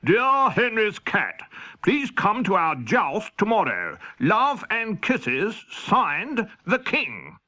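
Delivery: a hint of royal proclamation; reading the King's letter. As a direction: read it out slow and grand. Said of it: "It said".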